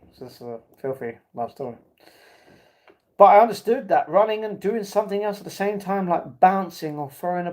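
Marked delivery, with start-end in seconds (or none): 0.1-1.8 a much softer, lower aside; muttered under breath; quiet aside. Real, not acted. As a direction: drop the voice, sly. Aside after laughing fit.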